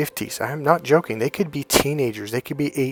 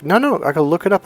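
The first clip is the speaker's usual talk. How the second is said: high, louder protest; retold insistence; 6 semitones higher, 5 dB louder than usual. Answering doubting guys at his workshop, insistent. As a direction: push back emphatically, pitch raised.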